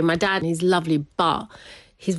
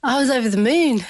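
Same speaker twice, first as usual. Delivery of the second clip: laughing; 7 semitones higher than usual. Real, not acted. Recalling relief, laughing.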